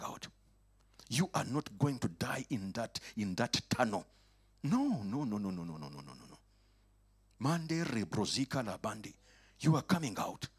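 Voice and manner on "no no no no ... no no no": emphatic no fading away. Acted. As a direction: refuse firmly then let it fade.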